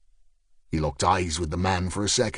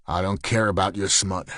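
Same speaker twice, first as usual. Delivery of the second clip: flatly; 3 semitones lower than usual. Acted. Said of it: "said Stryker flatly".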